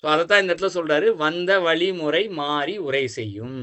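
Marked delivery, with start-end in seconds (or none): 1.1-3.6 slow, drawn-out recital of a verse; verse recitation. Shown as a demonstration. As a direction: recite the line slowly, stretching each word. Quotes the verse line slowly. (நிதானமாக செய்யுள் ஒப்பித்தல்)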